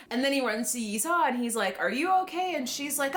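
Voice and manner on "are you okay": imitated panic. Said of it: "He's, like, totally panicking".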